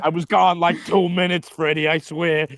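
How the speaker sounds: hammed-up sheepish excuse down a crank phone; sheepish bodyguard confessing he left his post; a lightly voiced flustered guard; mock guilty bodyguard.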